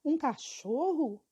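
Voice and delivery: slow, scornful question; com desprezo. Acted. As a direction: sneer the question at a mere dog. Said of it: "com desprezo". (pergunta lenta e desdenhosa)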